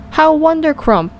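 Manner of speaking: beaming giant. A narrator's reading. Delighted giant cries out to Sophie, beaming. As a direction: cry it out beaming with joy. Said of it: "cried the B F G, still beaming".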